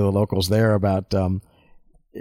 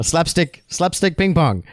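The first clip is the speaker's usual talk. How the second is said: slow parody of Korean, pitched up; mock Korean; 5 semitones higher, slower than usual. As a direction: imitate Korean sounds with higher, deliberate syllables. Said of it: "That's what it sounds like".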